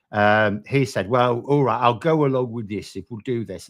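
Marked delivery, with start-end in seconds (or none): 1.1-3.7 a hint of a mocking put-on union boss; lightly mock him in a bad, Scouse-like accent; dickhead accent. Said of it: "That's a terrible Scouse accent".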